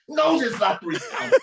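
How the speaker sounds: laughing exasperation. Retold or imitated. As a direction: laugh it out in disbelief.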